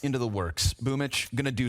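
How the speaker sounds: brisk caster call, rising with each frag; live play-by-play. Real, not acted. Caster counts off the opening frags, rising play-by-play. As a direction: build as the kills land.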